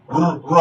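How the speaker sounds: "র" said with a rolled, vibrating r; trilled r. Shown as a demonstration. Teacher repeats the vibrating letter, trilled r. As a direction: let the tongue flutter on each "র". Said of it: "তখন সেটা কাঁপে".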